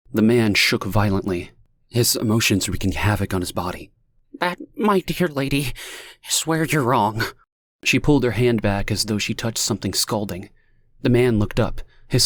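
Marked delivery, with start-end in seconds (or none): 4.4-7.2 higher, grave contradiction; grim correction. A narrator's reading. Stranger telling Lonnie she is wrong, grave.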